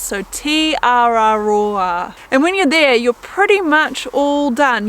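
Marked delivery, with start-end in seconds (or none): 0.0-2.2 T R R raw ah run together quickly like in a sentence; quick run-through. Shown as a demonstration. Showing hikers the name at natural speed. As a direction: say T R R raw ah almost as one word. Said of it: "say it pretty quickly".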